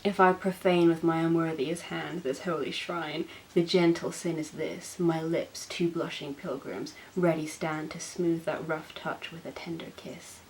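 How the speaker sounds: a hint of a dim lovestruck himbo; himbo Romeo. Reading Romeo to viewers in a mock himbo voice. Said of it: "I'll do my best Romeo voice".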